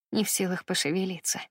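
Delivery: usual speaking voice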